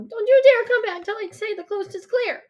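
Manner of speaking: high, loud warning shout; yell. A narrator's reading. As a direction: yell a threat at a brother. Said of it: "I yell".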